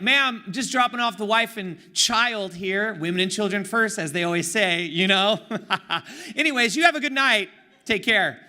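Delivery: kill her with fake courtesy; sarcastic politeness. Leaning out the car window, sarcastically polite to the drunk lady. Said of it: "Nice little dose of sarcasm".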